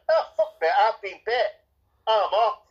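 high, laughing, offhand quip; mocking how a hero should have left; breezy mock exit. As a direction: toss it off cheerfully like a shrug. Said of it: "he could have just gone".

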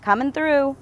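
loud holler carrying a couch. A narrator's reading. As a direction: shout ahead to clear the corridor. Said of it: "Alex hollered".

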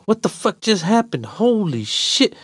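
high-pitched disbelief, slowing at the end; amazed. Acted. Walker to friend, blood still pumping, amazed. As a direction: marvel at it, adrenaline still up. Amazed talk just after fight.

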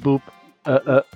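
ordinary talk, nothing marked

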